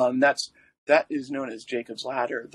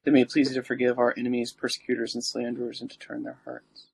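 prayer. Acted. Recites the litany.

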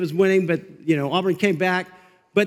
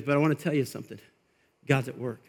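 hushed pastor; 8 semitones lower, 7 dB quieter, faster than usual. Retold or imitated. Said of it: "He goes".

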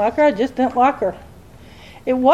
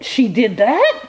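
laughing, slow incredulous question; amused astonishment with a laugh; laughing disbelief; 2 semitones higher, much slower than usual. Retold or imitated. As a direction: chuckle through the shock. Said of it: "I'm like".

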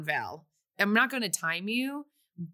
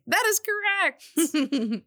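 drawn-out game-show confirmation; 9 semitones higher, much slower than usual. Acted. Host confirms a right answer.

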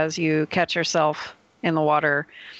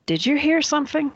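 high, growly voice through fangs; distorted werewolf voice; 9 semitones higher, faster than usual. Acted. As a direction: speak around a long snout and fangs. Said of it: "sounds like someone in a Krynos form".

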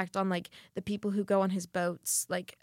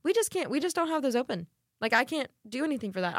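lightly imitating a polite server, pitched up at first; politely refuse, starting high; 4 semitones higher than usual. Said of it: "I was being so polite".

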